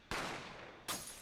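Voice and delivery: quiet breathy intake; soft shocked gasp. Real, not acted. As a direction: gasp under your breath. Player gasps at the scene.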